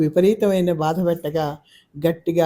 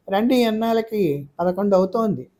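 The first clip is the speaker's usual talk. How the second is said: irritated; 5 semitones higher than usual. Acted. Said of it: "విసుగ్గా అంది".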